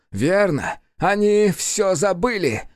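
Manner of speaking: high, slow demon voice; demon speaking. A narrator's reading. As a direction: drag the words out bitterly. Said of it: "проговорил он".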